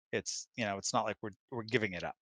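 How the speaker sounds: ordinary delivery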